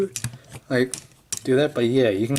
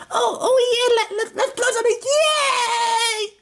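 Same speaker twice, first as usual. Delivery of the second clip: squeaky high manic cackling glee, far higher; psychotic guy voice; slower than usual. Retold or imitated. Toy reviewer voicing a psychotic robot face, manic high voice. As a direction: play the giddy maniac who loves explosions. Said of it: "his psychotic guy is like".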